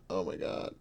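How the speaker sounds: breathy whispered aside. Real, not acted. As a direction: whisper it in disbelief. Relieved aside after outburst.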